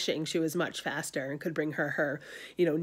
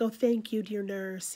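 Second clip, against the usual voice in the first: kind Juliet; 3 semitones higher than usual. Retold or imitated. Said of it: "very kind to the nurse".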